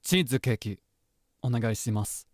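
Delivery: tsundere. Acted. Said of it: "All right, tsundere".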